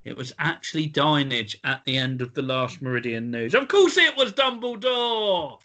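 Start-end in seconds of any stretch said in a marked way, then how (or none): 3.5-5.6 higher, slow, drawn-out exclamation; mock-exasperated outburst. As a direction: ham up the obvious answer. Quizmaster bursts out after fake answer.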